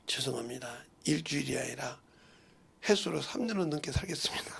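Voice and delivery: soft, hushed retelling of the doctor's words; doctor's hushed verdict. Retold or imitated. (의사 말을 조용히 속삭이듯)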